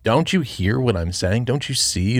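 slow, mildly exasperated questioning; understated disbelief, drawn out; a little frustrated. Retold or imitated. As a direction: plead as an imitated frustrated teacher. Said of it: "maybe getting a little frustrated".

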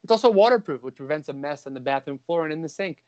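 upbeat podcast ad read; host reading a Manscaped sponsor spot, light ad voice. Acted. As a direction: sell the grooming kit to the fellas, breezy and bright.

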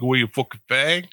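lightly put-on Boston accent. Podcaster imagines how Bostonians say it, rough Boston accent. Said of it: "with a fucking Boston accent".

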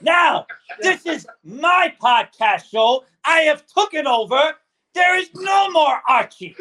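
swaggering pirate captain. Acted. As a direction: gloat like a cartoon pirate. Pirate claims the podcast.

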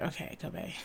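soft, hushed coaching of herself; quiet inner pep talk, half whispered; calming self-talk. Retold or imitated. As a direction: talk yourself down gently, dropping into a whisper. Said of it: "and be like".

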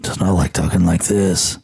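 half-hearted gruff caped-crusader voice; gruff Batman voice. Shown as a demonstration. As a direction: drop into a mild gruff Batman growl. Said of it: "trying to be a little gruff".

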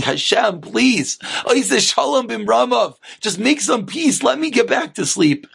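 mildly acted weary plea; pleading. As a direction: beg heaven to let you sleep. Sleepless man pleading with Hashem.

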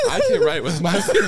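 a hint of a Southern Chicago accent; lightly mocking Southern Chicago accent. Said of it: "he said it in his, uh, Southern Chicago accent".

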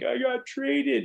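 high, drawn-out mock sob; retold bawling. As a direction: wail it slowly, imitating yourself in tears. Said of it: "I'm crying".

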